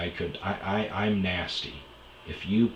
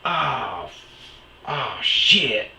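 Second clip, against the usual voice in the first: a hint of a startled mom, higher; mom's surprise; 7 semitones higher, 7 dB louder, much slower than usual. Mom watching the awards on TV, lightly startled. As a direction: blurt it out mildly startled. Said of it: "the mom was like".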